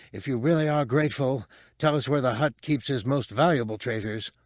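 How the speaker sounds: quick, demanding thief; demanding small creature. Acted. Muftak asks the droid for treasure, lightly voiced demand. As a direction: press for the loot at a quick clip.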